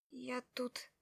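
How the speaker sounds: a shy, awkward murmur; awkward, quiet. Acted. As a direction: trail off, unsure what to say. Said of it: "Начала было неловко".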